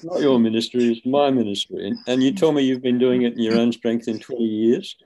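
retold scolding, pitched a little up; mock-indignant telling-off, pressing the point; emphatic rebuke. God setting the reluctant evangelist straight, emphatic rebuke.

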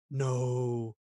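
imitating Rom's rising panicked nos; rising scale. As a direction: climb up a scale on each no. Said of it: "you're going up in scales each time".

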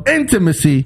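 "intimacy" with IN punched and the rest falling; stress on IN. Shown as a demonstration. Man finishing his corrected phrase, punched IN in "intimacy". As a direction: hit the first syllable of "intimacy" deliberately. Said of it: "The emphasis is on the N".

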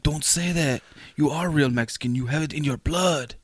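lightly put-on Mexican accent. Coworker reassuring his friend, imitated Mexican accent. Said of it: "Like, the Mexican voice?".

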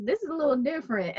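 laughing. Retold or imitated. Laughing while quoting self.

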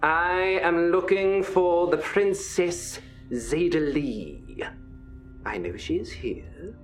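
cold royal threat sinking to a whisper; menacing prince. Acted. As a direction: threaten the whole crowd like a dark prince. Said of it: "Prince Zealot's voice emanates from the figure".

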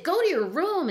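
stern mother yell, retold; retold order to room. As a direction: replay snapping a kid to her room. Mom sends fighting daughter away.

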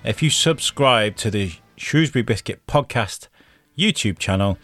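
upbeat host read over music; bright promo read to the listeners; podcast outro read. Acted. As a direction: sign off the show like a radio host.

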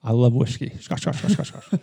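whispered, rising scotch drill; vocal warm-up. Shown as a demonstration. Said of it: "Stretch the voice".

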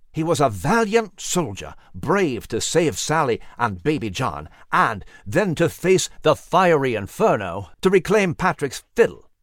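lightly voiced gentle old companion, mournful; a hint of a solemn old gentleman; Nigel's voice.

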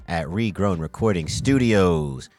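announcer intro. Acted. Podcast host intro.

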